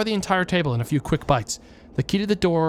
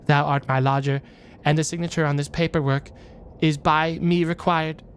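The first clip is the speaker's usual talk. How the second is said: archaic speech. Acted. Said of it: "When did you start talking like this?".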